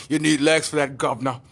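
cheeky mock-English kid; lightly put-on English accent. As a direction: gloat with a hint of English accent. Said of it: "I wanna give him an English accent".

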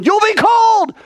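high, loud, exasperated comeback; emphatic shout. Acted. Teacher answering a what-if, high emphatic shout. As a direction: fire the answer back at full voice.

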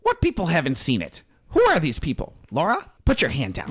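lightly voiced, put-out author; George. Author questioning who hasn't seen his show, lightly indignant character voice. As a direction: play a mildly indignant famous writer. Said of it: "I'm George".

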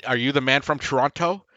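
"Toronto" with a hard final T syllable; second T sounded. Retold or imitated. Mimicking actors promoting the film, "Toronto" with second T sounded. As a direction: say "Toronto" as tron-TOE, questioning. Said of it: "because they kept going".

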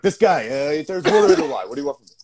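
put-on light Italian-American accent; a hint of an Italian-American grumble. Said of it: "I just turned Italian".

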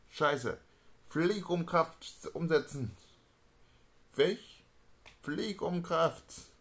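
loud high frantic orders; panicked shouting. Acted. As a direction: bark the orders in alarm.

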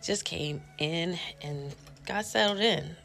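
breathless after coming in, panting words; out of breath. Real, not acted. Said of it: "If I sound like I'm out of breath".

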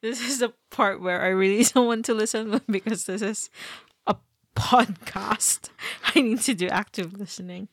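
talking through laughter; giggling between words; laughing. Real, not acted. Laughing through podcast explanation.

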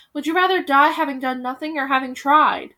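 loud urgent plea; pleading appeal. Acted. Hansel pleading with the villagers, loud appeal. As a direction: beg them to fight.

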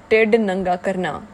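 "Tid Nanga Karna" said in Punjabi, TID stressed and falling; "Tid Nanga Karna" with Punjabi sounds, stress on TID; Punjabi phrase. Shown as a demonstration. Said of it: "the Punjabi phrase is called".

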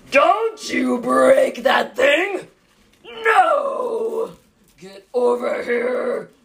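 put-on loud, slow mom yelling across the store at her kid. Mom yelling across Walmart at her kid, loud and slow. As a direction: bellow it out like a mom scolding in public. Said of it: "that mom that, like, yells across".

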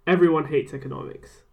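lightly imitated French accent. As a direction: put on a French professor's accent. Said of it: "I'll do the accent".

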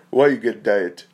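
lightly imitated Turkish-sounding speaker, pressing the question; imitated Turkish-like accent. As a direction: put on a rough Turkish-style accent. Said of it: "I don't even know what his accent".

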